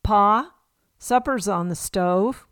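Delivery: a folksy Southern twang, lightly put on; Southern accent. Ma calls Pa to supper in a mock Southern accent. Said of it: "in their strongest Southern accent".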